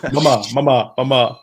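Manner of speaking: lightly voiced cartoon pestering; Stewie. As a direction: imitate a cartoon child nagging for mother. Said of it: "because Stewie does that".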